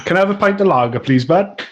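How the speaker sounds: Welsh phrase shown for copying; "bud" ending on a Welsh "butt"; Welsh accent. Shown as a demonstration. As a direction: order a pint in Welsh accent. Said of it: "I would say".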